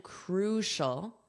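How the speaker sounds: "crucial" said slowly as KROO-shul, rising at the end; careful pronunciation. Shown as a demonstration. Teacher modelling "crucial" for students, slow and clear. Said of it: "notice that pronunciation".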